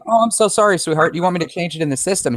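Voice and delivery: high-pitched imitation of an apologetic clerk. Acting out apologetic store clerk.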